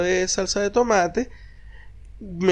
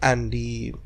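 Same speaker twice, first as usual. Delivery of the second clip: mock hurt; 7 semitones lower, 7 dB quieter, much slower than usual. Partner sulking, told sadly.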